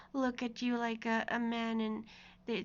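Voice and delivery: ordinary talk, nothing marked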